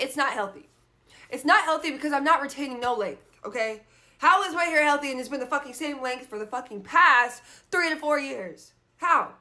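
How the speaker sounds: firing back at the stylist, fed up; retold angry retort. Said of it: "And I'm like".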